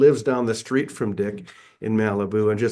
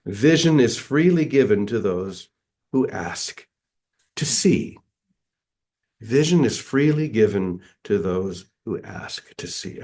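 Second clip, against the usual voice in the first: measured reading with deliberate pauses; devotional reading. Acted. Speaker reading a teaching aloud to listeners, devotional reading. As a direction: read each phrase out as scripture to dwell on. Reads an inspirational passage aloud.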